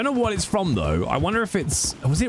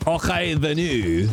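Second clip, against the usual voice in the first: slow English-accented reading of Scots; careful English accent; Anglo-Saxon way. Shown as a demonstration. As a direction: say it slowly like a non-Scottish outsider. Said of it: "I'll say it in, in a very Anglo-Saxon".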